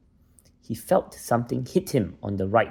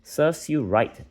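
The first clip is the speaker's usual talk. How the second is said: higher, slow, smug retort; drawn out, a little up and loud; Husher's retort; 7 semitones higher, 4 dB louder than usual. Acted. Husher telling Lenny he deserved it, slow and higher.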